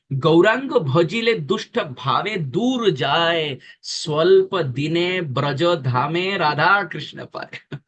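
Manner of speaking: slow, drawn-out Bengali verse; verse recitation. Acted. Preacher quoting Bengali devotional poetry, slow recitation. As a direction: savour each phrase of the couplet, laughter near the end.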